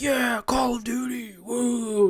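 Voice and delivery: a long, mock-hyped "woo" of celebration; mock cheer. Recalling the midnight launch line, mock cheer.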